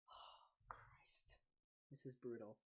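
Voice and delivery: breathless whispered curse. Real, not acted. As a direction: whisper it under your breath. After a sip of hot sauce.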